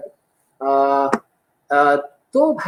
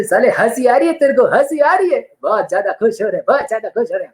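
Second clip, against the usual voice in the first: lightly voiced Akshay Kumar; 5 semitones higher than usual. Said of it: "Akshay Kumar बोले".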